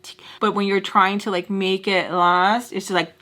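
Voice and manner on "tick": hushed clock tick; imitated ticking. Guest imitating a clock running down, hushed ticking. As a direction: tick softly like a countdown.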